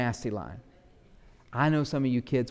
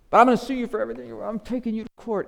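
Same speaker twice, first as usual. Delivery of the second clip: high, fast, loud threat to sue; rapid high shouting threat; shouted threat; 8 semitones higher, 7 dB louder, much faster than usual. Acted. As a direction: blow up at the debtor. Servant's threat rising.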